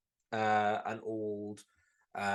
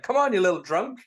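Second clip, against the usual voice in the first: higher, louder coaxing taunt; mock Homer; 8 semitones higher, 7 dB louder than usual. Homer coaxing the leprechaun, hammed-up. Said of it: "he's like".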